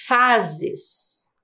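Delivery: "fases" read with a buzzing Z in the middle; S sounded as Z. Shown as a demonstration. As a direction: say "fases" carefully, FA-ZES. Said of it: "Ele tem som de Z".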